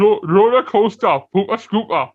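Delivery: loud, high-pitched Geordie impression; Geordie accent. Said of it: "I do love the Geordie accent".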